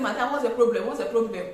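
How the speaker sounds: loud, sharp demanding question; angry confrontation. Shown as a demonstration. Seller calling a customer to confront her, angry and loud. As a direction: snap at the customer in anger. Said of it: "the tone of your voice matters".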